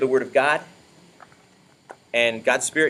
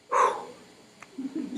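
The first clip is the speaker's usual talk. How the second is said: breathless exhale; 8 dB quieter than usual. Real, not acted. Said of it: "why I'm out of breath".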